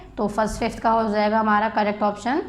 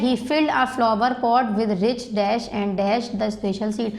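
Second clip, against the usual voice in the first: very slow, word by word, for students to write; slow dictation; much slower than usual. Shown as a demonstration. Teacher reading a worksheet line to the class, slow dictation. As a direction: read it out slowly so the class can copy.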